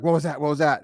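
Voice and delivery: mock the startled wife asking what happened; alarmed question. Wife comes out to see the damage, alarmed.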